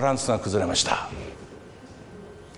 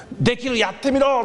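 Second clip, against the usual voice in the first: higher mock shout from the crowd; crowd goading; 10 semitones higher than usual. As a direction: dare him, calling from the crowd. Crowd goads him. (群衆のあおりをまねて)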